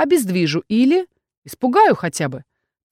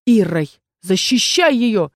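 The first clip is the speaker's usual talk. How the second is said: slow, lightly raised shout; shouted command. Acted. Erkhan orders the orc to guard her, shouting. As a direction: call out to protect her. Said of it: "столь же оглушительно закричал Эрхан".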